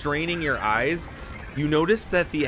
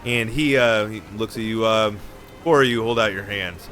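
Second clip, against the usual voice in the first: Manta Ray voice. Acted.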